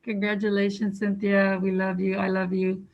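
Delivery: muffled behind a mask; speaking through a mask; through a face mask. Real, not acted. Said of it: "I have my mask on".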